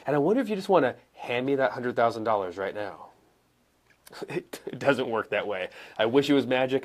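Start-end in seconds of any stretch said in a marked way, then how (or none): 0.0-3.1 pause, then "hand me that hundred thousand dollars" slowly falling; mock-hypnotic, setting "hand me that hundred thousand dollars" apart; mock embedded command. Shown as a demonstration. Coach joking that it isn't magic, mock embedded command. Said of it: "said something lower and slower".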